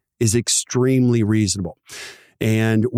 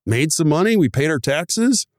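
happy relief rising much higher by the end; relieved dentist; 4 semitones higher than usual. Retold or imitated. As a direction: dentist thrilled to finally see cash in the bank. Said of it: "You're like".

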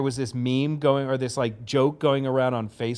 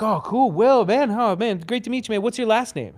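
drummer's greeting; 8 semitones higher than usual. Retold or imitated. Drummer voiced greeting narrator.

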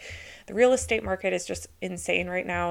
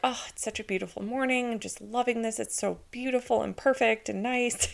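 fairy-tale bliss; 3 semitones higher than usual. Retold or imitated. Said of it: "making my life sound like a fairy tale".

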